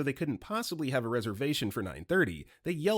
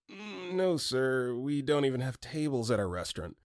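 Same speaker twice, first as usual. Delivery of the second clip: understated attempt to keep from laughing; barely suppressed laughter. Worker turning down a table booking, mildly stifling laughter. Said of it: "barely holding in my laughter".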